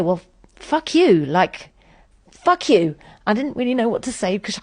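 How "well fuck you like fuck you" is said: retold comeback, voice pushed up; angry retort. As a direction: lash out at the friend. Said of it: "And I do say".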